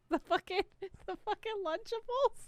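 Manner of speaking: high, laughing squeal of disbelief. Real, not acted. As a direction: laugh it out, can't believe it. Disbelief at friend's lunch choice.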